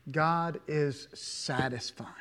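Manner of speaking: slow, hushed whisper; a slow reverent whisper on the repeat. Shown as a demonstration. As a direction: breathe it out slowly as a whisper. Repeats the line as a hush.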